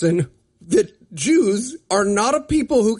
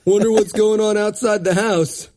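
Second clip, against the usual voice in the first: mock reality-show contestant. Imitating Big Brother housemates, a hint of mock innocence. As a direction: play it clueless and chipper. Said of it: "Just like".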